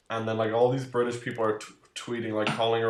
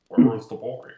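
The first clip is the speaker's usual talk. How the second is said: gruff voice; 9 dB louder than usual. Acted. Doing silly voices.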